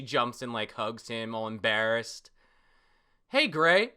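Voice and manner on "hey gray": character voice. Acted. Character greets Gray.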